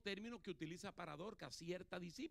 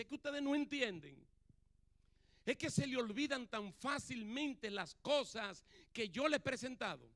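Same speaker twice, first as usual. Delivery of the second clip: louder, higher, insistent scolding; firm rebuke; 3 semitones higher, 4 dB louder than usual. Retold or imitated. Jesus scolding his apostles, loud and insistent. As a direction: drive home the frustration, slowing at the end. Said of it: "Aquí a sus apóstoles le dice".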